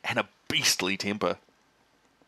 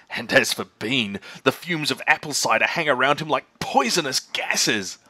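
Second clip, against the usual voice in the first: lightly voiced cocky Mr Fox; 3 semitones higher, 4 dB louder than usual. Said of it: "said Mister Fox".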